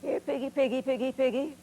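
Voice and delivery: hog call. Retold or imitated. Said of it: "And a hog call".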